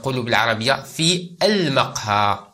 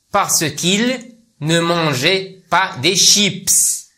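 higher, slow acted punchline; punchline retort; 5 semitones higher, much slower than usual. Teacher acting the man's comeback, higher and slow. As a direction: deliver the comeback up high and slow.

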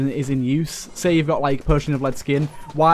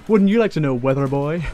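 retold kid's comeback; 4 dB louder than usual. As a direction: imitate a kid's cheeky comeback, punching the opening. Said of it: "And he just goes".

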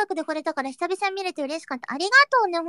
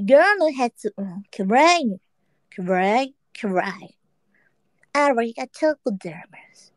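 low-pitched mock English pronunciation; mushy English accent; 5 semitones lower, slower than usual. Shown as a demonstration. Streamer demonstrates pronunciation for chat, mushy English accent. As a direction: chew the words in a put-on English accent. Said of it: "英語の発音もっちゃもっちゃしてるよ".

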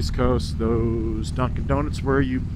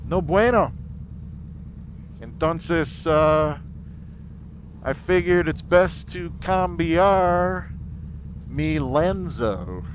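gringo Spanish; 3 semitones higher, slower than usual. Real, not acted. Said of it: "That's mi gringo Spanish".

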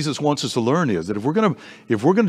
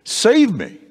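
a slow, high cry of a sinking man; crying out for help; 6 semitones higher, much slower than usual. A narrator's reading. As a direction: plead to be saved. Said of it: "he cried out and he said".

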